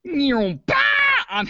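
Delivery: very slow shout. Pretend. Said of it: "really shitty laser light show".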